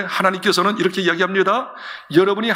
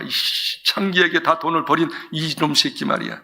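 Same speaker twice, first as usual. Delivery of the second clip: jealous angry son. Acted. Eldest son fuming at his father over the feast, rising indignation. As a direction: spit out the resentment at the brother. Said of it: "화가 난 거야".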